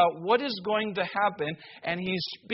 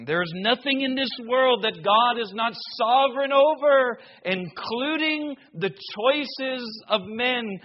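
loud, higher preaching voice; full-force preaching; 3 semitones higher, 4 dB louder than usual. Acted. Preacher proclaiming to the church, loud and fervent. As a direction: proclaim God's sovereignty boldly.

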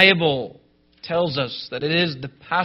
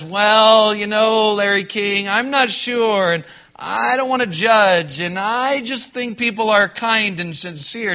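Joel Osteen; 5 semitones higher, 4 dB louder than usual. Retold or imitated. Preacher mocks a TV pastor dodging judgment, wishy-washy imitation. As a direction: imitate a noncommittal preacher, stretching the hesitant words. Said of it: "Don't be like the Joel Osteen that says".

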